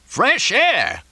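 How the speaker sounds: very high-pitched outraged echo; incredulous yell. A narrator's reading. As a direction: yell it back in disbelief. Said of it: "Mortimer yelled".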